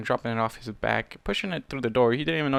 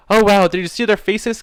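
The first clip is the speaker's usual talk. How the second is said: excited squeak; 7 semitones higher, 9 dB louder than usual. A narrator's reading. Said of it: "Kuno squeaked".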